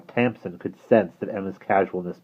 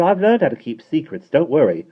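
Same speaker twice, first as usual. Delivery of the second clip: put-on higher, lighter girl voice; girl's voice; 8 semitones higher, 7 dB louder than usual. A narrator's reading. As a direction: voice Emma a bit higher. Emma speaking, character voice.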